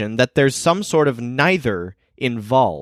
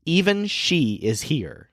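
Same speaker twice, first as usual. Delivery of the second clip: slow and softer, emphasis on "she"; stress on SHE; 3 semitones higher, 4 dB quieter, slower than usual. Shown as a demonstration. Teacher repeating the original example sentence, stress on "she". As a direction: take it slowly, leaning on "she". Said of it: "placing strong emphasis on the subject, she".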